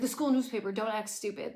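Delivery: rapid-fire challenge in her face; confrontational Paris. Retold or imitated. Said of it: "all up in her face".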